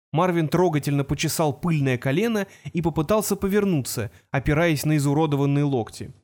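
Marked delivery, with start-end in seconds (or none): none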